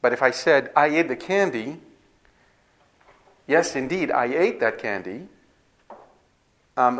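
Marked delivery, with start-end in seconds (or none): 0.7-5.3 bright, rising affirmation of I ate the candy; a teacher affirms I ate the candy without conflict; affirming. Shown as a demonstration. A teacher shows students a plain affirming tone. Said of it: "the emotional tonality is different".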